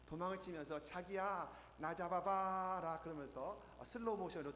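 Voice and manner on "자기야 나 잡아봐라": coy, slow, drawn-out teasing; cute coy voice. Retold or imitated. Seoul girl teases her boyfriend while running, coy. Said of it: "말도 귀엽게 하지 않습니까".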